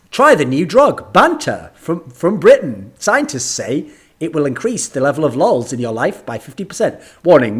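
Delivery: lightly mock TV drug-ad voiceover; drug commercial announcer. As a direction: read it like a medication commercial. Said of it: "like, medication commercials".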